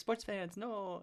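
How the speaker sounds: put-on Middle Eastern-accented speech. Retelling what the lecturer said in class: imitating professor's Middle Eastern accent. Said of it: "That's how he talks".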